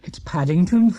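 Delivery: a hint of an alarmed father; lightly voiced Mister Brown. A narrator's reading. Mister Brown spotting Paddington in the race, alarmed.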